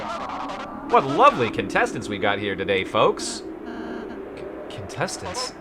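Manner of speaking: put-on game-show host in a mid-Atlantic accent; hammed-up mid-Atlantic TV announcer. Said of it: "like, a mid-Atlantic, uh, accent".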